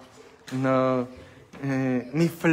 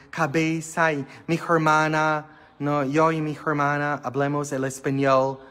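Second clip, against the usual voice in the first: put-on American accent. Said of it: "con ese acento americano".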